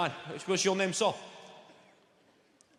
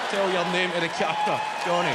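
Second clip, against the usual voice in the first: a louder push toward Johnny; 1 urging call; 6 dB louder, faster than usual. Real, not acted. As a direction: egg the shy man on, louder. Urging quiet audience member.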